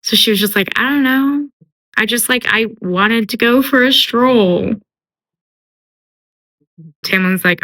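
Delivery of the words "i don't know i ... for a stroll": higher, airy feigned innocence; innocent excuse. Retold or imitated. Feyre covering for Lucien to Tamlin, mock innocent. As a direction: play dumb with a lilting excuse.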